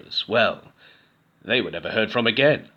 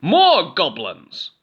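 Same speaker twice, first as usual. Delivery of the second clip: higher, very slow, loud reveal; triumphant goblin; 6 semitones higher, 6 dB louder, much slower than usual. A narrator's reading. Cave goblin revealing the crowd, slow loud. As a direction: announce it slowly and proudly. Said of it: "said the voice".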